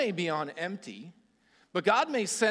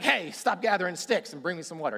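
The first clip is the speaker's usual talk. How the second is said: a mock curt order, slightly louder; jokingly pushy request for water; bossy demand; 4 semitones higher, 5 dB louder than usual. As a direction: bark it like a rude guest. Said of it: "He didn't say it like that".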